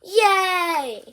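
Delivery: high, loud yay; delighted cheer. Acted. Piggy cheers at Gerald's offer, delighted. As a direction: squeal with joy.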